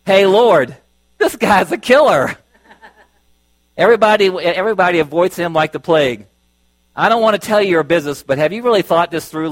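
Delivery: homespun, pleading paraphrase; down-home version. Acted. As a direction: talk to the Lord like a nervous good old boy. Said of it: "I decided to write it in the down-home version".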